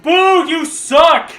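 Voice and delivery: high, loud, slow drawn-out boo; mocking heckler. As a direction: jeer it like a troll in the comments. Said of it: "being like".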